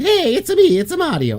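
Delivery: bad, very high, loud Italian accent. Arguing anyone could voice the character, showing a bad Italian Mario accent. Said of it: "It's just a bad Italian accent".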